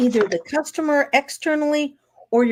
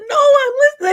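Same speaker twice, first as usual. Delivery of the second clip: mom reassuring; 8 dB louder, faster than usual. Retold or imitated. Mom reassures crying son.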